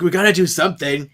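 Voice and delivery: quick, voiceless whisper; urgent whisper. Retold or imitated. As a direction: hiss it out fast and under the breath. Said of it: "she's like".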